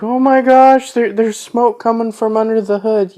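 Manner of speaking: high, loud panicked imitation; hammed-up panic over smoke from the hood; freaked out. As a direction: squeal it like a panicking nerd. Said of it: "he's freaked out".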